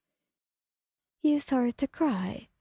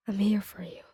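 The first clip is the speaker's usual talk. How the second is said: tender whisper; 4 semitones lower than usual. Acted. Kirishima hugging his friend, whispering reassurance. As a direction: hold her close and whisper it.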